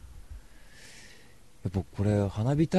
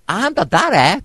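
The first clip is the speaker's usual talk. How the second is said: high, loud imitation of a brash girl; loud-voiced party girl; 10 semitones higher, 9 dB louder, much slower than usual. Party girl bursting into the event, loud imitation. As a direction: blare it out, much higher. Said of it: "やたらと声がでかい".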